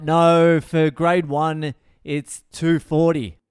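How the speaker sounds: slow, loud "no", then measured explanation; drawn-out correction. Retold or imitated. Teacher corrects parents on pickup time, slow and patient. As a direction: spell it out slowly for a latecomer.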